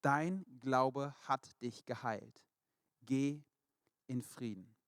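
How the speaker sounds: very slow and deliberate, each word weighed; slow, solemn blessing. Acted. Jesus tenderly blessing the healed woman, slow and solemn. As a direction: lay the words down gently like a blessing. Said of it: "sagte Jesus zu ihr".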